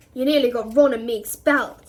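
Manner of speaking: loud, hard accusation; fierce. A narrator's reading. Harry rounds on the elf, fierce and loud. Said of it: "he said fiercely".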